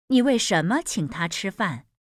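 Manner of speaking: 你 hit first and hard; stress on 你. Shown as a demonstration. Teacher showing stress on 你. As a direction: lean on 你 in 你为什么请他吃饭. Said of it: "demo of logical stress".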